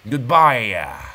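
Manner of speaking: "Goodbye" falling into a drawn "yuh"; added Y sound. Shown as a demonstration. Host showing the Y he adds, "Goodbye" plus falling "yuh". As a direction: let "Goodbye" drop onto an extra "yuh". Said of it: "I put a Y in there".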